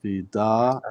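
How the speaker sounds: "fida" with a long held final aa; learner's careful, lengthened "fida"; pulled vowel. Shown as a demonstration. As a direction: stretch the end of "fida" while sounding it out. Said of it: "So we say".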